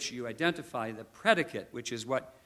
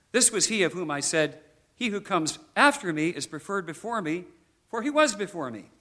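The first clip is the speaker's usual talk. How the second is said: raised, higher proclaiming voice; crying out; 6 semitones higher, 6 dB louder than usual. Acted. Preacher reading John's testimony of Christ, proclaiming loudly. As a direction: declare it like a witness to a crowd. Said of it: "cried out, saying".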